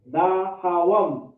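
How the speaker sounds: DAHAWAM slow, syllables drawn out and separated; slow demonstration. Shown as a demonstration. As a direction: stretch "Dahawam" out for learners. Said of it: "is how to say".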